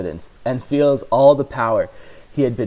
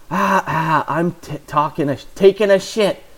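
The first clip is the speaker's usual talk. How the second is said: unconvincing; 7 semitones higher, 4 dB louder than usual. Acted. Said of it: "Mark says unconvincingly".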